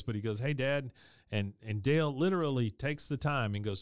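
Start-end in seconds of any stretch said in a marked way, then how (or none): 0.4-0.9 awkward voice. Retold or imitated. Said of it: "he's got the awkward voice".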